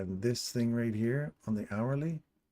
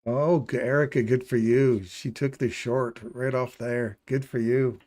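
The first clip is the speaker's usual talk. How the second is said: louder, happy praise for Erica; excited cheer; 4 dB louder than usual. Real, not acted. Congratulating viewer Erica on her trade, louder and happy. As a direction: cheer her win out loud.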